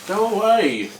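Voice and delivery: loud, high shout at a seagull; shooing away. Real, not acted. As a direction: shoo the bird off, laughing. Shooing a seagull mid-interview.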